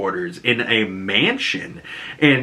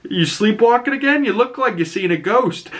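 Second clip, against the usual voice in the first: mock-kindly dad, pitched up; Augie; 11 semitones higher than usual. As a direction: lightly imitate an eerily nice father checking on his son. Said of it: "sees this guy and he's like".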